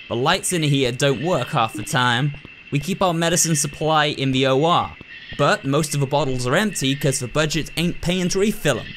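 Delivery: lightly voiced folksy rural doctor, blunt; a hint of a no-nonsense backwoods doctor; gruff country doctor. Doctor lecturing the new nurse, lightly folksy and blunt.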